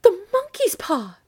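high, loud, drawn-out frantic cry; wild cry. A narrator's reading. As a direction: cry it out slowly and wildly. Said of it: "she cried wildly".

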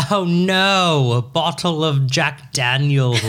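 stretched, lightly hammed-up singer impression; slow mock correction of a fake celebrity; a famous singer. Fake singer corrects hosts about the bottle, drawn-out parody. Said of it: "And she's like".

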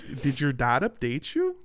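country Canadian, lifting up on the final "you"; country Canadian accent. Shown as a demonstration. Host showing co-host his way into it, in a country Canadian accent. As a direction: lean into country Canadian vowels, ending upward. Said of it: "I gotta get into it".

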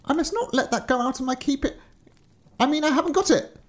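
high, nervous lie; fumbling a lie in fright; mock terror. Terrified agent lies about the key, high. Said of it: "shaking with terror".

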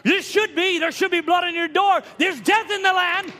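high, insistent preacher voice; urgent preaching. Real, not acted. Preacher warning of death in the land, urgent preaching. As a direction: press the warning on the congregation.

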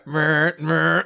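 short mock motor noises; imitated machine whir. Brother's self-lacing shoes at station, imitated whir. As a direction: mimic a little mechanism whirring twice. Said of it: "You hear, like".

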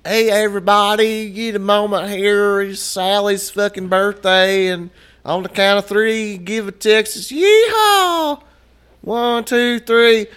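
high, slow mock hype host; hammed-up restaurant staff announcement; restaurant announcer voice. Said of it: "every fucking ten minutes, you got".

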